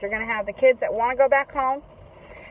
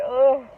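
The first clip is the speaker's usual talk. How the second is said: imitated loud worn-out "ugh"; louder mock groan of exhaustion; exhausted groan; 3 semitones higher, 6 dB louder than usual. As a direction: act out a kid spent after venting. Acting out exhausted kid collapsing.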